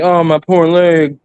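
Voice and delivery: slow, mocking whine about a leg. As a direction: whine it like a fake victim. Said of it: "how he can get so much sympathy".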